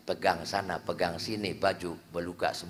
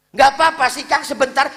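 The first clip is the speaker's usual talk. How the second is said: high, loud, wheedling woman's voice; coaxing woman; 15 dB louder than usual.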